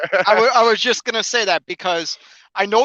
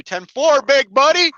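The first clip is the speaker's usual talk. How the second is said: CB trucker voice; 8 semitones higher, 4 dB louder than usual. Acted. Jokey CB trucker greeting.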